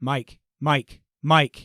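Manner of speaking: low, flat monotone, no inflection at all. Retelling a call heard from around the corner, flat monotone like Joe. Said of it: "he does not change tone, inflection, nothing ... in Joe's voice".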